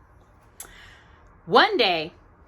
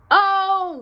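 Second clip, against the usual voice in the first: high, loud dismayed oh; the engine sees the curve coming, alarmed; dismayed cry; 11 semitones higher, 4 dB louder than usual. Acted. Engine sees the curve ahead, high alarmed cry. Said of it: "cried Tootle".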